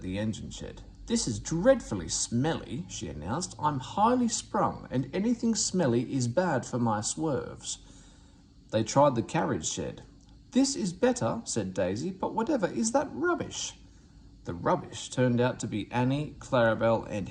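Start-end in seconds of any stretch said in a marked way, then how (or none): 1.1-7.8 fussy diesel railcar. Acted. Daisy complains about shed. 10.5-13.8 high, haughty, fussy voice; fussy diesel railcar. Acted. Daisy sneers at coaches.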